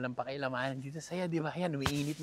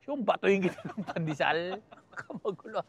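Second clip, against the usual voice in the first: laughing; 6 semitones higher, 5 dB louder than usual. Real, not acted. Joking about rude greetings back home.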